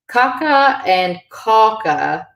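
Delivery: "caca and caca" said slowly, each with a different A; contrasting vowel length. Shown as a demonstration. Teacher contrasting excrement and cake, careful vowel contrast. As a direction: draw out the two words "caca" to show the difference. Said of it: "So fadas are very important".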